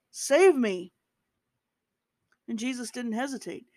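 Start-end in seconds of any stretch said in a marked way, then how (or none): 0.1-0.9 louder, higher plea; desperate rescue cry; cry for help. A narrator's reading. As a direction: shout it while sinking. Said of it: "And he cried".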